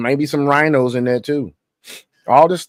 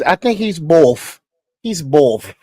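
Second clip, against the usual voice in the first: slow, mocking Midwest accent imitation; 5 semitones higher, 3 dB louder, slower than usual. Host mocks the secretary's Midwest accent, slow and drawn out. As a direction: parrot her Midwest accent back, a little higher and slower. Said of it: "you hear that Midwest accent?".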